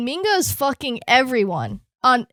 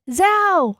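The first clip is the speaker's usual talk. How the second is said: quoting a command; 7 semitones higher than usual. Retold or imitated. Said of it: "He said".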